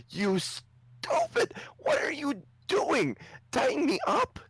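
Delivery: high, slow, scolding squeal; angry gnome king. Acted. Freed gnome king scolding the other king, high angry squeal. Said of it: "the other gnome king looks at him and says".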